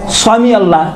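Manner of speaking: سمع said with a heavy ص for س; thickened s. Shown as a demonstration. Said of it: "اسی سا کو تھوڑا موٹا".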